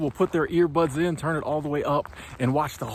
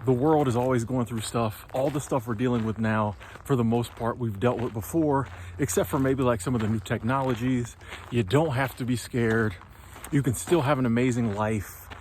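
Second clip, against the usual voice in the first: reassuring; 3 semitones lower than usual. Retold or imitated. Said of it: "if you start saying".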